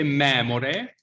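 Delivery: slow "memore" with an open first E. Shown as a demonstration. Teacher asking the class to repeat, open E in "memore". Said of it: "has an open E".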